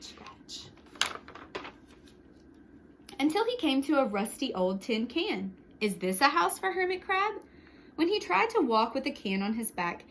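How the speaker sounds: put-on lively read-aloud for children; storyteller voice for kids; story narration. A narrator's reading. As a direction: tell it like a picture book to a class. Reads picture book aloud.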